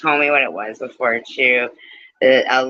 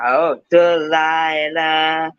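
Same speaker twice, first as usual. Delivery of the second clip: midnight radio caller; 2 semitones higher, much slower than usual. Pretend. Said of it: "midnight caller or something".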